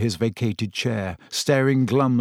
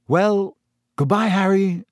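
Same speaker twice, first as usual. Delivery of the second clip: higher-pitched goodbye with a smile; smiling farewell; 8 semitones higher, 4 dB louder than usual. A narrator's reading.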